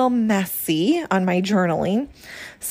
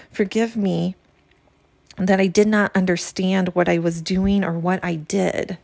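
heartfelt journal reading. Acted. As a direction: read each line as a gentle apology to your own soul. Reads step two aloud.

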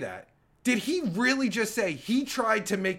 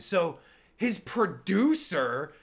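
stuttering John; slower than usual. Shown as a demonstration. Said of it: "I'll do some stuttering John work here".

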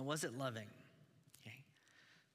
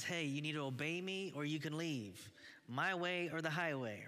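stern father; 3 semitones higher than usual. Retold or imitated. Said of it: "our father's voice that says".

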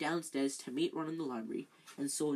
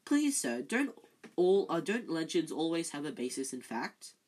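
eager; 4 dB louder than usual. Acted. Hermione eagerly interrupting teacher.

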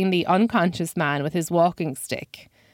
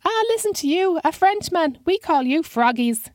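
put-on very high old man voice; high-pitched old man; 11 semitones higher than usual. Old man mocking the Frenchman, high-pitched voice. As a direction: tease in a high old man's voice. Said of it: "with a high-pitched voice".

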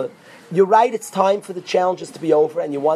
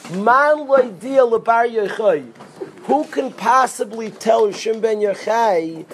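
slow, higher and louder cry from the doorway; prophet crying out; 5 semitones higher, 4 dB louder, slower than usual. Retold or imitated. Eliyahu cries his news at the cave door, a slow loud call. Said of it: "He screams by the door".

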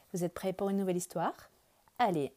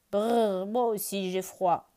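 shivering bear; 3 dB louder, slower than usual. Acted. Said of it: "dit Gros Ours".

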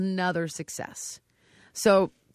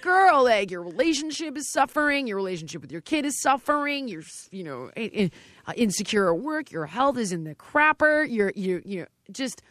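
a touch of sassy, lightly raised; blunt talk; 3 semitones higher than usual. Retold or imitated. Trainer listing a contestant's problems, lightly sassy. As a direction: lay it out frankly to her. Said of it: "I'm like".

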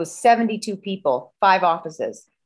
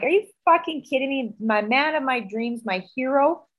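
higher-pitched, wounded protest; retold heartbreak, pitched up in disbelief; hurt disbelief; 5 semitones higher than usual. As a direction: plead as if betrayed, lightly acted. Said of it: "I cried like a baby".

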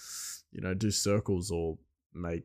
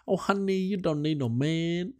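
mock Asian accent; 8 semitones higher than usual. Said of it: "I think it's hilarious".

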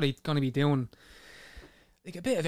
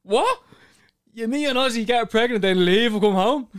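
shocked; 8 semitones higher, 7 dB louder than usual. Retold or imitated. His own shocked reply retold.

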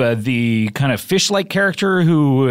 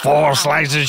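Bill Cosby impression; 3 semitones higher, slower than usual. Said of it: "He comes in and says".

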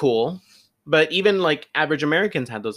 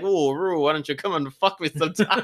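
Mae West impression; 5 semitones higher than usual. Imitating Mae West to her co-host, sultry and high. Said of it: "I thought of Mae West".

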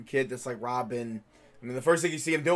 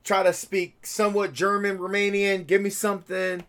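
mock director; 4 semitones higher than usual. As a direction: play a pushy casting director. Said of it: "I feel like they said".

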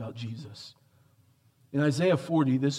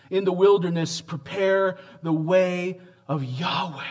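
ringing proclamation; 3 semitones higher than usual. Acted. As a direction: lift it out like a herald's cry. Preacher proclaims Isaiah's line.

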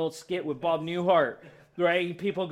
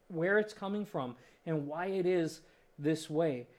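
sincere prayer; 4 dB quieter than usual. Pretend. Voiced prayer, softer.

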